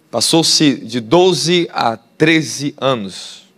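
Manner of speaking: slowly stressing how long it took; very slow emphasis. Real, not acted. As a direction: drag out the years, very slow. Preacher stresses long years.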